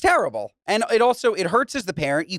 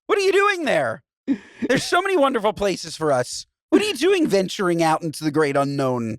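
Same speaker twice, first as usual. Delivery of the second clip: mock snob; 2 semitones higher than usual. Mocking snobbish woman's attitude.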